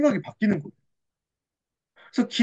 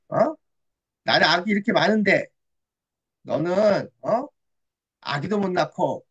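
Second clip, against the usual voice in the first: teasing. Acted. Peninnah mocks childless Hannah beside her, teasing. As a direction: needle a rival, then pause for effect. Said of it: "그 옆에서 또 놀리는 거예요".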